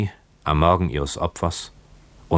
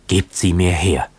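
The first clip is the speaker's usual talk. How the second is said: jäh und drängend herausgestoßen, etwas lauter; reiß ihm die Worte entgegen; hervorgestoßen; 2 semitones higher, 4 dB louder than usual. A narrator's reading. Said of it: "stieß Kokua hervor". (hastig hervorgestoßen)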